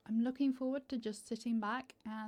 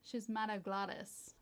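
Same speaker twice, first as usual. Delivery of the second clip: American accent. Shown as a demonstration. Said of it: "it comes up in an American accent".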